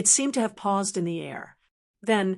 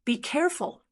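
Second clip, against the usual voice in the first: high, urgent warning cry; a mild worried yell of warning; worried call; 6 semitones higher than usual. Acted. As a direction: call out in worry. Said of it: "yell out worriedly".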